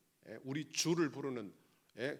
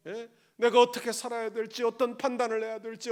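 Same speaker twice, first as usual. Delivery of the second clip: normal talking voice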